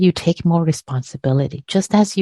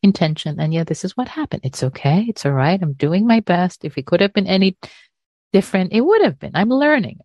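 forgive yourself gently; kind, forgiving self-talk; faster than usual. Retold or imitated. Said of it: "hold yourself with a lot of kindness and forgiveness".

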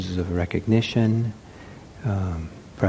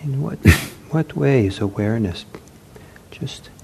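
unhurried meditation guidance with long pauses; guided meditation; 5 dB quieter than usual. Acted. Teacher to seated meditators as they settle, guided meditation. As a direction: gently guide sitters, leaving long silences.

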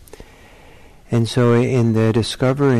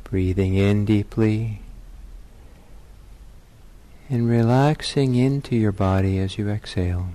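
measured meditation guidance with long pauses; guided meditation. Real, not acted. Teacher settling meditators into their bodies, guided meditation. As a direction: lead them into stillness, leaving space between phrases.

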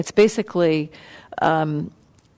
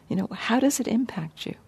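soft unvoiced whisper; 4 semitones higher, 6 dB quieter, faster than usual. Real, not acted. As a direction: breathe the question gently. Soft rhetorical question to listeners.

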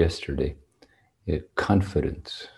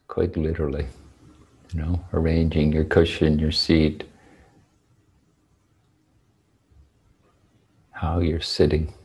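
unhurried meditation guidance with long, spacious pauses; guided meditation. Real, not acted. Teacher settling sitters on their cushions, spaced-out meditation guidance. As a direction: guide sitters gently into posture, phrase by phrase.

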